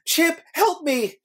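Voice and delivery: high, drawn-out cartoon cry for help; hammed-up high plea, slowly stretched out; mock yell. Host acts out hero calling to his friend, mock yell. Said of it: "Oh, he yells".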